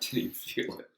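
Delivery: whispered mocking echo of the line. Co-host whispers a mocking echo of his brag. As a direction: breathe it back as a teasing aside.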